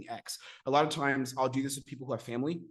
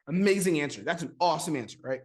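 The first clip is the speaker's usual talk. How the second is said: bright, louder burst of praise; impressed praise; 4 semitones higher, 6 dB louder than usual. Acted. Coach praising a prospect's answer, excited and loud. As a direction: really sell how impressed you are.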